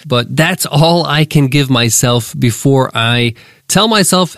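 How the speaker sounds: congested, nasally voice from a cold. Real, not acted. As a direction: talk through a blocked nose. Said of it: "I'm very nasally right now".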